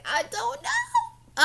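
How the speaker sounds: high and slow, helpless I-don't-know; clueless shrug. Retold or imitated. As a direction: stretch it out like a baffled shrug. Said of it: "And I'm just like".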